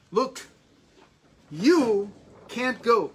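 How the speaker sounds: lightly voiced stern clerk; imitating a clerk's refusal.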